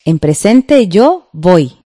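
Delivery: slow, deliberate dictation pace; each word drawn out for students. Shown as a demonstration. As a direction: spell it out slowly for the class. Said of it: "Vamos con la primera fila".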